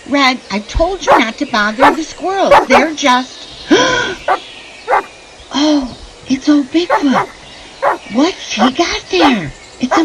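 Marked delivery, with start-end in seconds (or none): 3.7-4.6 sharp high gasp of shock; startled gasp. Acted. Woman spotting Bigfoot from her porch, sharp startled gasp. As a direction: catch your breath at the sight.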